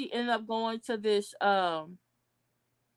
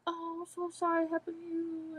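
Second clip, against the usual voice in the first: mock sympathy; 5 semitones higher, 8 dB quieter than usual. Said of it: "everybody's like".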